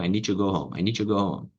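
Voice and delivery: "I need to go home" run together, "need" flowing into "to"; natural connected speech; linked-up demo. Shown as a demonstration. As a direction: blend the words into one smooth line. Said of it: "Junta uma coisa na outra".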